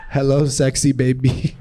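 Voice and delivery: mock seductive greeting; horny DM creep. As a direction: slide in like a creepy flirt, lightly put on. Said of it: "the dudes that, like, slide into D Ms".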